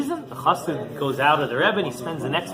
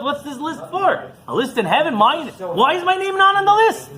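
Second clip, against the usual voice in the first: anxious rich man. Retold or imitated. Rich man frantic about the list.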